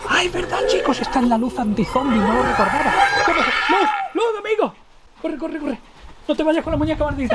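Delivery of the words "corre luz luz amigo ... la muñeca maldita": llamando al perro. Pretend. Llama al perro que huye.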